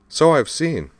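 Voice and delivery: a brash admiral rallying youngsters; tough admiral Aya. Acted. Aya voiced in read story.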